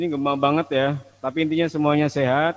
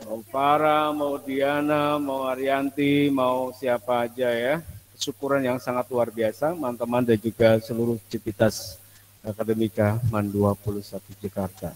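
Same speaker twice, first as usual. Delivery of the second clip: classroom echo. Real, not acted. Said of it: "Di sini gema banget".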